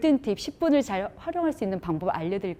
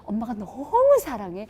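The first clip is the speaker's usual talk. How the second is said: sincere. Shown as a demonstration. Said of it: "한 번 딥허그".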